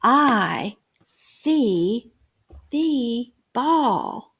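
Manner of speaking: slow, even reading-aloud voice; choral reading. Shown as a demonstration. Teacher reads sentence with group, choral. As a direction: read it along with the children. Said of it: "let's read the sentence together".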